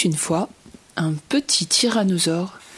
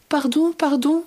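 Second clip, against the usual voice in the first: sorry apology; 7 semitones higher than usual. Acted. Little tyrannosaur apologizes after eating.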